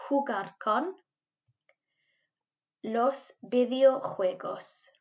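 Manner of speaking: teacher drills the class, slow and loud; slow model phrase. Shown as a demonstration. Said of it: "So let's try that".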